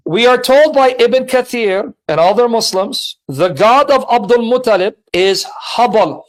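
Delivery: deliberate, phrase-by-phrase restatement; slow repeat. Real, not acted. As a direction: lay it out piece by piece for the listener. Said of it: "Let me repeat it slowly".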